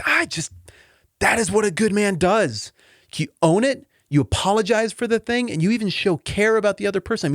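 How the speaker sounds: high and strained with real emotion; misty-eyed confession, voice cracking up high; teary, voice breaking. Real, not acted. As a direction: talk through welling tears. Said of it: "I started bawling".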